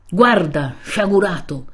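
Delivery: a stern, sharp scolding cry; severe rebuke. Acted. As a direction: scold him like a wrathful friar. Friar rebukes Renzo in anger. (rimprovero severo e brusco)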